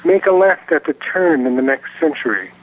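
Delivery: measured recital with pauses between phrases; poem reading. Acted. Poet reads his poem to radio listeners, measured recital. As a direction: read it line by line, letting endings fall. Guest starts second poem.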